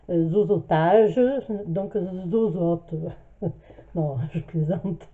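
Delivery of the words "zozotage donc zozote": slushy sh for s sounds; lisping after mouth surgery. Real, not acted. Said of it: "je zozote encore un peu".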